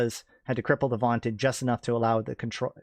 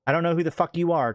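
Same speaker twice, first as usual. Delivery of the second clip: louder, higher angry snarl; growled; 5 semitones higher, 4 dB louder than usual. Acted. Pilot turns on the armed passenger, angry growl. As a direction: spit it at the intruder. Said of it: "Trevor growled".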